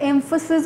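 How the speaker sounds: "emphasis" given extra weight; stress on emphasis. Shown as a demonstration. Teacher showing viewers which word matters, "emphasis" stressed. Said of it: "I emphasized the word emphasis".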